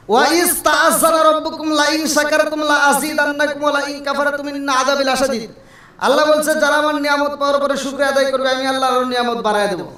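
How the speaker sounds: continuous melodic Arabic chant; sustained scriptural chanting; Quran recitation. Acted. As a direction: intone the verse, gradually settling toward the close. Recites verse and translation.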